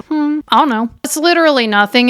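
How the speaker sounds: mock-casual imitation of her; teasing. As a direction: play innocent to tease him. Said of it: "And she's teasing him".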